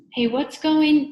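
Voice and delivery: high, loud drawn-out call; startled outburst. A narrator's reading. Todd blurts out before his voice is stolen, high loud outburst.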